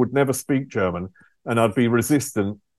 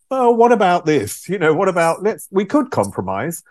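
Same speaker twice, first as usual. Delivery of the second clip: higher, mock-wheedling negotiator; mock pleading Brits; 6 semitones higher than usual. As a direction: ham up the British begging to bargain. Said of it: "the British were going".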